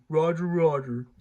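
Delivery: clipped robotic droid reply; battle droid voice. Pretend. Battle droid answers the reviewer.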